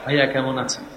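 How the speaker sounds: soft, low polite greeting; respectful to elder. Shown as a demonstration. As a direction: greet your elder brother gently. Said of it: "আপনি যখন বড়র কাছে যাবেন".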